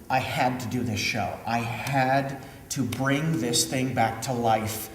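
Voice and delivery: low, soft, deeply sincere; earnest resolve. Real, not acted. Director tells audience of deciding to revive the show, hushed earnest resolve. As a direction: drop low and quiet, meaning every word.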